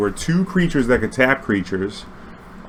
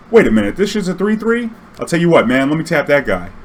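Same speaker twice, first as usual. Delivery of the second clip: can't believe what he's seeing; indignant surprise; 5 semitones higher than usual. Retold or imitated. Player realizing the creature is a three three, high indignant disbelief.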